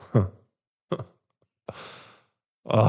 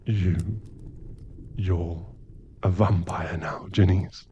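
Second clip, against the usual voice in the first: hushed; 3 semitones lower, 8 dB quieter than usual. Acted. Breaking the news gently.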